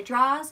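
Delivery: draws said without the r, like "draws"; draws, the Long Island way. Shown as a demonstration. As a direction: drop the r in draws. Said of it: "I don't care how you say it".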